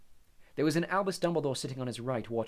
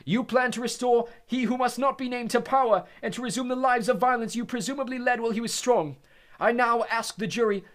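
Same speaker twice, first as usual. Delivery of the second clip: bellowed; 13 semitones higher, 9 dB louder than usual. Acted. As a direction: bellow the charge at the prisoners. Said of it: "bellowed Mister Crouch".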